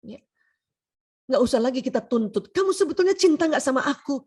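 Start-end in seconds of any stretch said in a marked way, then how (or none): 2.5-4.2 a touch higher, pressing question; demanding wife, acted. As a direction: press him for an answer, playfully acted. Acted wife demanding proof of love. (istri menuntut kepastian, diperagakan)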